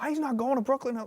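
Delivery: high, loud comic outburst; mock exasperated protest. Quarrel in the car to Brooklyn, mock exasperation. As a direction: imitate a heated refusal at full pitch. Cab quarrel on the bridge retold.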